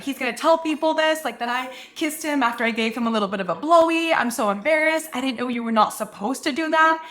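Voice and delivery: mildly distressed retelling, pitched a little up; a touch of mortified panic; near-tears embarrassment. Retold or imitated. Friend phoning about the kiss, mildly tearful embarrassment. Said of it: "on the verge of tears".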